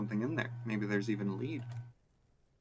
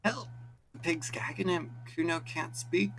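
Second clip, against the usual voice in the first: crying for help; 8 semitones higher than usual. Acted. Kid crying for help again.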